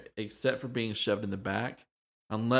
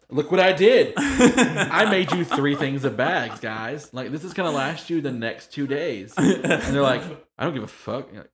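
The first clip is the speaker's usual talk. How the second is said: laughing, high and loud, hammed-up hurt pride; squealing with laughter, mock offended; mock pride through laughter; 6 semitones higher, 9 dB louder, slower than usual. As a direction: play wounded pride while cracking up. Mock proud then offended bag maker.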